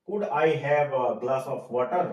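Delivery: slow, spelled-out polite ask; polite request. Shown as a demonstration. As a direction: model it slowly for learners. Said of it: "polite way में".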